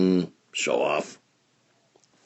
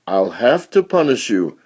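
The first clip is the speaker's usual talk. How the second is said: stern scolding; 4 semitones higher, 5 dB louder than usual. Acted. Scolding parent.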